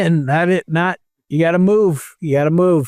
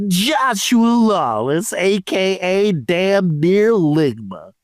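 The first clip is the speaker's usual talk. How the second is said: lightly hammed-up roll call; mock reader, drawing out some names; put-on name-reading voice. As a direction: read each name in a slightly put-on voice. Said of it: "I'll try to do it in the same voice".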